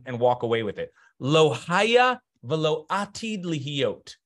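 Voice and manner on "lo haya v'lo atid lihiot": slow solemn quote. Shown as a demonstration. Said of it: "take this phrase".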